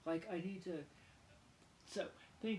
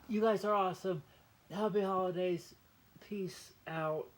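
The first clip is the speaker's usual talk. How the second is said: louder, beaming goodbye to the viewers; hearty shouted happy holidays; loud cheerful sign-off; 2 semitones higher, 9 dB louder than usual. Real, not acted. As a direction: call out the farewell with a big smile.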